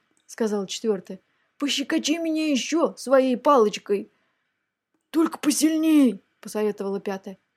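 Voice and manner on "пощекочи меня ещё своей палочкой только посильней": high, wheedling monster request; storybook dragon asking for tickles; coaxing dragon heads. A narrator's reading. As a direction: beg playfully in a pitched-up voice. Dragon heads beg for more tickling.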